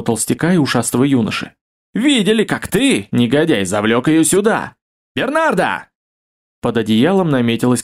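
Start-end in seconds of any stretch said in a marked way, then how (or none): 1.9-5.9 high, indignant accusing shout; jealous outburst. Acted. Jealous baron accusing Leonard and calling for his wife, indignant shout. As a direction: accuse him, then call out for the wife.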